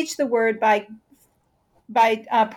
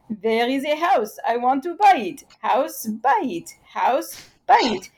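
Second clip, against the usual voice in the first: put-on Israeli accent. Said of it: "in their Israeli accent".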